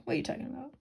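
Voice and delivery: hushed, incredulous; whispered disbelief. Acted. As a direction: breathe it in disbelief. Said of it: "He's like".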